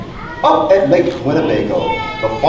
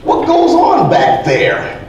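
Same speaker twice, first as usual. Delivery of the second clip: calling out; 12 semitones higher, much slower than usual. A narrator's reading. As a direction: call out from outside, puzzled. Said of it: "He called out".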